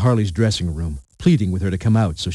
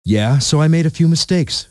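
higher-pitched, mildly defiant admission; defiant snap; 6 semitones higher than usual. A narrator's reading. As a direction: answer back with a touch of defiance. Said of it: "Defiant as ever, she snapped at him".

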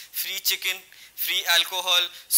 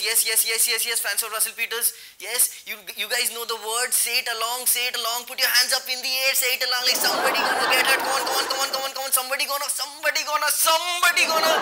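crowd hype; 3 semitones higher than usual. Acted. Hyping the crowd to sing along.

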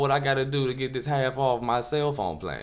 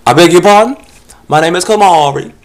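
much higher, loud camp voice; mock prissy guy; 7 semitones higher, 14 dB louder than usual. Solicitor repeating his name, high and camp.

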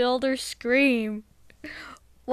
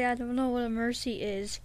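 whisper; 3 semitones lower, 10 dB quieter than usual. Acted. Admits not knowing, aside.

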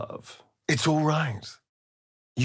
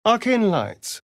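higher and louder, delighted by the magic; excited exclamation; 9 semitones higher, 6 dB louder than usual. Acted. Companion spotting glowing arcane lights, excited. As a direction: gasp it out in wonder.

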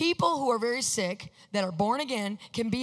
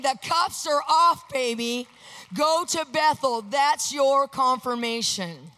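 retold divine declaration; 3 dB louder, slower than usual. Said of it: "He was saying".

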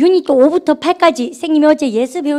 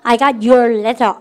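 slow dictation; much slower than usual. Shown as a demonstration. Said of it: "시작".

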